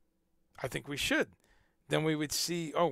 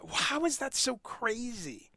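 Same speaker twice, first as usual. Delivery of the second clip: breathy disbelieving whisper, higher; incredulous whisper; 8 semitones higher, slower than usual. Real, not acted. Ranting about politics, a disbelieving whisper.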